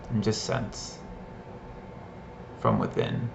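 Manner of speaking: measured guiding voice with long pauses; guided meditation. Shown as a demonstration. Teacher leading listeners to sense hands and feet, guided meditation. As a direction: guide attention through the body, pausing after each instruction. Leads a short sensing exercise.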